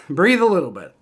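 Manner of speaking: said again through a laugh; laughing at his own relief; laughing repeat. Real, not acted. Fan tells himself to breathe, through a laugh.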